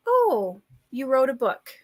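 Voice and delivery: put-on thick Minnesota accent, condescending librarian; Midwest accent. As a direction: play a patronizing small-town Minnesota librarian. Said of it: "layered in your Midwest accent even heavier there".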